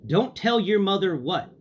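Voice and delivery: a hint of suspicious grandmother; grandma's suspicious question. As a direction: catch him out like a sharp grandma. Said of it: "And she goes".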